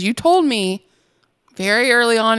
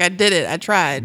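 lower, defeated little protest; mock sad owner; 3 semitones lower than usual. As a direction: imitate a dejected man giving up. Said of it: "he was really sad".

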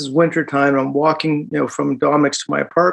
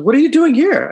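voicing cop; 11 semitones higher, 4 dB louder than usual. Cop voiced in story.

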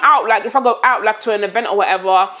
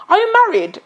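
surprised question; 11 semitones higher than usual. Retold or imitated. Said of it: "He goes".

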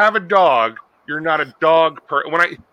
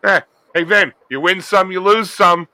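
higher, louder breezy shrug-off; laid-back contestant; 4 semitones higher, 5 dB louder than usual. Pretend. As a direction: play a carefree reality contestant. Mock easygoing contestant.

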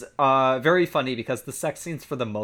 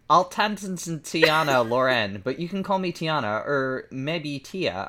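shy; 3 semitones higher, slower than usual. Acted. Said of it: "feeling shy".

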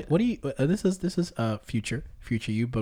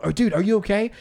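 higher-pitched, concerned check-in; serious concern; 5 semitones higher than usual. Retold or imitated. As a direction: imitate a worried bystander. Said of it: "Like, very seriously".

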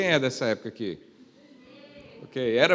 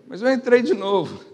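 chuckling through the words; laughing; 7 semitones higher than usual. Real, not acted. Pastor admitting to the church he went in again, laughing. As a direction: let the laugh spill into it. Confessing sneaking back in.

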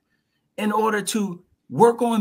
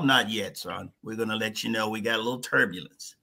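lower, clipped tower controller, quick on the last line; 10 semitones lower, 5 dB quieter than usual. Pretend. Tower answering the pilot in a lower controller voice. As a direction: talk down like an air traffic controller.

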